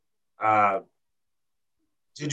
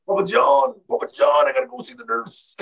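much higher, louder pleading whimper; winded whining; 13 semitones higher, 4 dB louder than usual. Retold or imitated. Austin begging Papa John, in a high winded whine. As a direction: whine for help like a hurt kid. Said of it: "he's talking like that the whole time".

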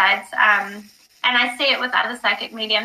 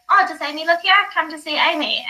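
friend's voice; 5 semitones higher than usual. Retold or imitated. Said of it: "heard her voice say".

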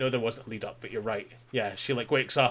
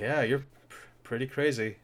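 softer, understated delivery; calm retold remark; 4 dB quieter than usual. Retelling his calm verdict on being crazy, understated. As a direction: say it mildly, without any fuss. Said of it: "in the calmest possible manner".

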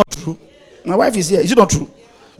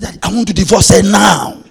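retold plea; 2 semitones higher, 6 dB louder than usual. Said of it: "he said".

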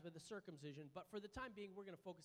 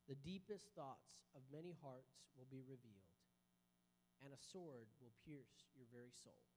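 scripture reading; 3 semitones lower than usual. Acted. Reads Luke chapter two.

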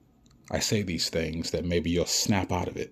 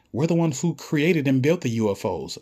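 mocking official; 8 semitones higher, 5 dB louder than usual.

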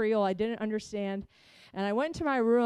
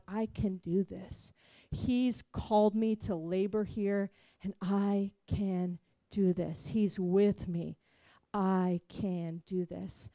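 quiet slow resolve; 3 semitones lower, 3 dB quieter, slower than usual. Retold or imitated. Resolve after weeping.

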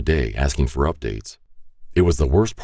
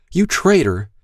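angry accusation. A narrator's reading. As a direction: hurl the accusation at him. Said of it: "she said".

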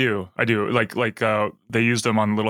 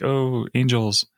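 slow, drawn-out mock swoon; imitating swooning viewers; much slower than usual. Co-host mimicking moms watching the show, drawn-out swoon. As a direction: coo it slowly, imitating smitten fans. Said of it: "They're like".

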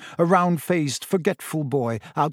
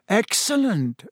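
pleased, higher-pitched exclamation; happy; 7 semitones higher, slower than usual. A narrator's reading. Boy hears friends will stay, happy. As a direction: say it happily, pitched up. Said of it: "said Harry happily".

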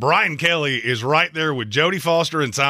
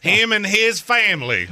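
laughing; 8 semitones higher than usual. Real, not acted. Joking laugh at Saban.

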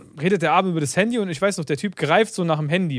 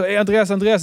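aufgeregter Anruf; 4 semitones higher, 4 dB louder than usual. Retold or imitated. Ruft aufgeregt den Partner an.

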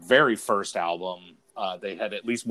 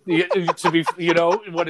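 lightly British; 8 semitones higher, 6 dB louder than usual. Pretend. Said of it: "The fine line between".

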